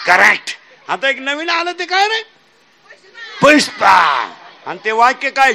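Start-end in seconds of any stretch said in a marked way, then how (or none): 3.4-4.3 loud shout of the name; shouted answer. Real, not acted. Preacher asks the crowd, they shout back loud.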